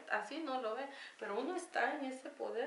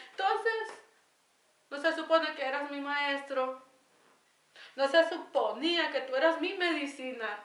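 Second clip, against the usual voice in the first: higher, louder tearful pleading to grandfather; crying reproach; 5 semitones higher, 6 dB louder than usual. Retold or imitated. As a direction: sob out the questions at him. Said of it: "yo empecé a llorar y decía". (reproche llorando al abuelo, más agudo y fuerte)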